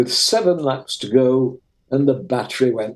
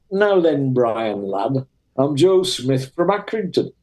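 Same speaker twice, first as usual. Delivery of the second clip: a light imitation of a broad Lancashire accent. Chief steward greets a fellow Lancashire lad, lightly voiced in a Lancashire accent. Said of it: "in a strong Lancashire accent".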